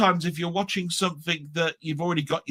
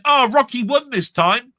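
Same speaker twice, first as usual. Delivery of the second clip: louder, slow, broadcast to the queue; loud spoiler; 5 semitones higher, 6 dB louder than usual. Retold or imitated. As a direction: call it out slowly so everyone hears. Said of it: "talking at the loudest part of his voice".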